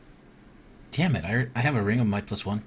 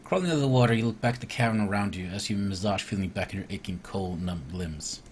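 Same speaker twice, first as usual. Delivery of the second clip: steady storybook narration, falling at line ends; story narration. Acted. Player reading the cave swim to viewers, narrating. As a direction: read the adventure text aloud evenly. Reads the game's scripted event aloud.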